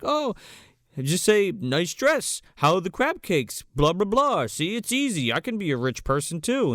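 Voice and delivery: high mock posh voice; teasing impression of a rich lady. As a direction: lightly ham up a snobby rich woman. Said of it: "She's like".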